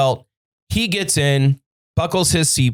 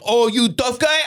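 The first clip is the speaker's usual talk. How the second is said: mocking taunt; 9 semitones higher than usual. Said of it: "he's like".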